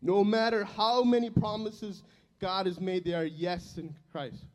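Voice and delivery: slow, measured reading of a Bible verse; slow scripture reading. Acted. Preacher reading the verse he woke up with, slow and solemn. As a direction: let each word of the verse land slowly.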